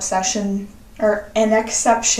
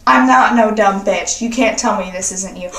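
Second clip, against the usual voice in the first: put-on sassy comeback to a cheating boyfriend; sassy retort. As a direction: talk back with attitude. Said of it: "I have to go sassy there".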